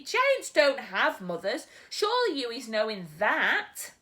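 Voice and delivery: a gentle giant muddling his words; storyteller's BFG. Acted.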